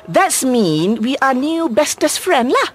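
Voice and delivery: Malaysian slang English with lah; exaggerated Manglish with a drawn-out lah. Shown as a demonstration. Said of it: "I'm going to say something in Manglish".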